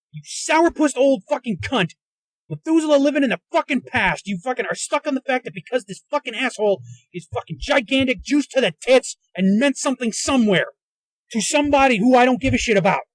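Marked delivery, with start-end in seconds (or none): none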